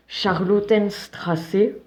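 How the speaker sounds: put-on slow, drawn-out German accent on the street name. Streamer tries out a German accent, slow. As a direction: read it out like a German. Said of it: "On va tester l'accent allemand".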